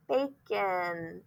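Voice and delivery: measured, drawn-out "bay... kin" for BACON; schwa as short I. Shown as a demonstration. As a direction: sound out BACON ending in "kin". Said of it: "The O is borrowing the I sound".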